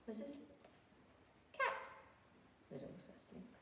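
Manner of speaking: softly, as if not to wake them; hushed. A narrator's reading. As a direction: drop to a hush for the sleepers. Hushed reading of sleeping animals.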